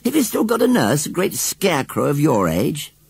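put-on high, loud incredulous boy; amazed. A narrator's reading. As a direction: press the question in scornful astonishment. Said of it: "asked John in amazement".

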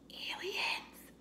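high, breathless scared whisper. A narrator's reading. Buster seeing flashing lights, awed whisper. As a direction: breathe the word in awe and fear. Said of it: "whispered Buster".

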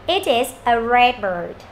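slow "It is a red bird", "It is a" joined; linked reading. Shown as a demonstration. Teacher repeating the linked sentence, slow joined reading. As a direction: glide through "It is a", then draw out "red bird". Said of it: "chúng ta đọc lại âm này".

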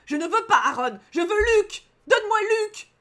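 high, loud tantrum, hammed-up; petulant demand. Real, not acted. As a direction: wail for the one you want. Protests, demands another love interest. (caprice crié, aigu et fort)

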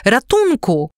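high, loud cries for help; calling for help. A narrator's reading. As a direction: shout for rescue in fear. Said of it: "na wołanie". (wysokie, głośne wołanie o pomoc)

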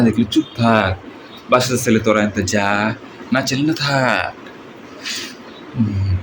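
Misha-style villain voice; odd rasping film baddie; movie villain. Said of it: "ব্যতিক্রম স্টাইলে এবং ব্যতিক্রম কণ্ঠে".

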